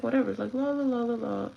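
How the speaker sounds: light singsong la-la imitation; mock carefree. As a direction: imitate someone breezing off without a care. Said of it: "she leaving like nothing".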